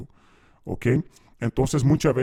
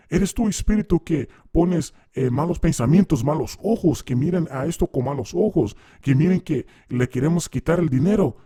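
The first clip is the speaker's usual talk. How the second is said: pastor interrogating demon; 4 semitones higher than usual. Retold or imitated. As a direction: grill the spirit like a preacher on stage.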